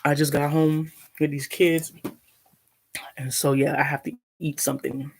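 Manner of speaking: chewing between words; mouth full. Real, not acted. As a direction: talk through a mouthful of food. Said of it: "Sorry, I'm eating".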